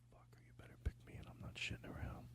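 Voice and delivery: whispered threat, hammed-up; fake off-mic whisper. Host whispers to the comic, pretending off-mic, a mock threat. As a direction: hiss it as if off the record. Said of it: "we're gonna edit this out".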